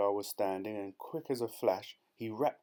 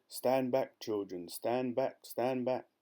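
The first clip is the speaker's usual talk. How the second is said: shouted warning; 2 semitones higher, slower than usual. Acted. Elephant shouts at children from jungle. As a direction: order the children back. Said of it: "deep voice from the jungle shouted".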